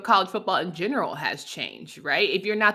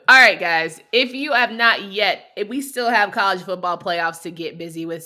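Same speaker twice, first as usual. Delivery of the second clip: upbeat sponsor read. Acted. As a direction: sell it like a host ad.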